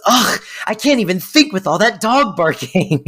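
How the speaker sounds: imitated whiny annoyance; mock exasperation. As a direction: groan it out, fed up with the noise. Acts out Val's exasperated complaint.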